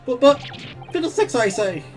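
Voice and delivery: flustered protest. Acted.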